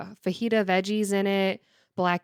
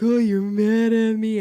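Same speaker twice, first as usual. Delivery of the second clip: slow, louder pet voice speaking; slow put-on dog voice; 2 semitones higher, 6 dB louder, slower than usual. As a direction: voice the dog as if hurt. Dog voiced reacting to owner.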